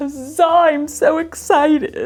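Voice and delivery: slow, high excitement that sounds sarcastic. Talking about extra time for a long list of projects, sarcastic-sounding excitement. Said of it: "I didn't mean for that to sound sarcastic".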